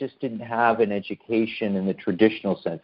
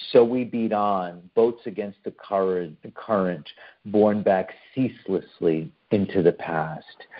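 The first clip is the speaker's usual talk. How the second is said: lyrical reading; 2 semitones lower than usual. Shown as a demonstration. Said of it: "which I'll read to you now".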